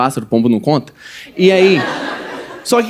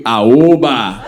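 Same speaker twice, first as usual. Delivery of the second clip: hick exclamation; 8 semitones lower than usual. Retold or imitated. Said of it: "a primeira palavra que meu primo falou".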